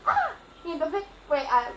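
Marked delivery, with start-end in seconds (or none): 0.1-0.3 imitated cry of fright; short mock yelp of shock; startled gasp. Girl re-enacting the dog bite, startled cry. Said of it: "así como que también me asusté y así".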